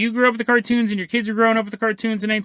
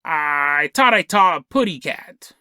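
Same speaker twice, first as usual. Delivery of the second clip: slow, lower take on the cartoon canary; lightly imitated cartoon bird catchphrase; Tweety; 5 semitones lower, slower than usual. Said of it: "And then Mel Blanc goes".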